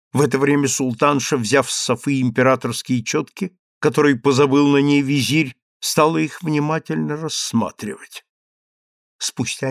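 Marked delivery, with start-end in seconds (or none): none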